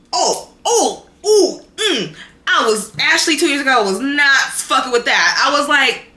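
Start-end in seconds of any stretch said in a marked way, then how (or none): 0.1-2.2 high laughing oh; amused groan. Real, not acted. Laughing at how petty she used to be. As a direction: laugh at your past self. Laughing about past self.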